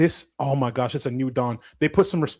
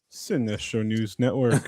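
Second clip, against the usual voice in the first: news anchor voice; 4 semitones lower, 3 dB quieter than usual. Pretend. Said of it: "My news anchor voice on".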